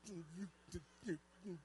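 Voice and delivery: very quiet mumble through tight lips; words shrinking behind clamped lips. Shown as a demonstration. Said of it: "what's the deal with the tight lips?".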